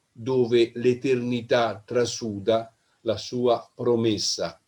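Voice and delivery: unhurried Italian poem reading with long pauses. Acted. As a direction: read each image as if weighing it. Reads his poem aloud.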